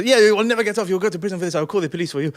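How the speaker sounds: loud, mildly heated mock shouting; retold screaming. Driver threatening passengers with the police, mock shout. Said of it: "just sort of screaming".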